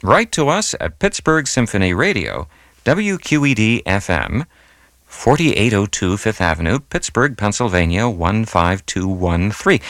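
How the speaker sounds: measured dictation, pausing between parts, slowest on the digits; slow, careful readout. Real, not acted. Radio host dictating the address for a listener to write down, slowly. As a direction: read the address out slowly, piece by piece. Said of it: "So I'll read it slowly".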